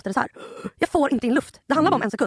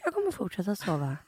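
groggy half-asleep; 2 semitones lower, 7 dB quieter than usual. Retold or imitated. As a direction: mumble like just woken from the dead. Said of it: "går upp som från de döda". (yrvaket, dåsigt och tyst)

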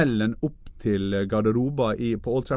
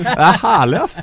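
laughing; 5 semitones higher, 10 dB louder than usual. Real, not acted. Laughing after the post.

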